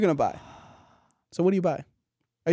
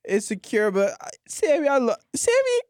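put-on drunk Santa voice; 3 semitones higher than usual. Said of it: "Santa's drunk".

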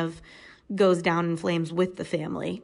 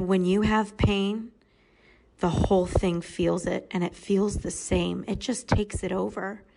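gentle retelling. Retold or imitated. Retelling the girl's wisdom.

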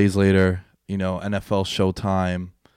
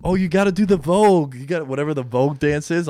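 mom voice; 4 semitones higher than usual. Retold or imitated. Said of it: "my mom is like".

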